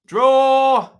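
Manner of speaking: loud, high shout of the word; sudden shout. Real, not acted. Streamer locking in his prediction, shouts it. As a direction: bellow the pick out triumphantly.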